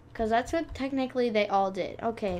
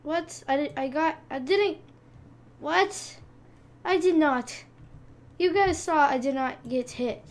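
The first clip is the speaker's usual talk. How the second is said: indignant protest; 4 semitones higher, 5 dB louder than usual. Real, not acted. Protests being hit.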